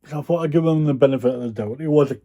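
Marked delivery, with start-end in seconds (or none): 1.8-2.2 a yawn and a burp stuck in the throat; stifled burp. Real, not acted. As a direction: talk through a stuck burp. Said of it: "Got a yawn and a burp stuck".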